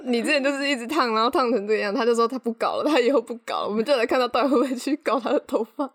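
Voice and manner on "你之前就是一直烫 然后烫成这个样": scolding. Retold or imitated. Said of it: "然后我跟他说".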